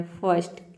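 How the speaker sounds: "फर्स्ट" as "fuhst", R left out; silent IR. Shown as a demonstration. Teacher shows learners silent letters, "फर्स्ट" without R. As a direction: say "फर्स्ट" with F, short vowel, ST. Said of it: "आपको silent रखना है".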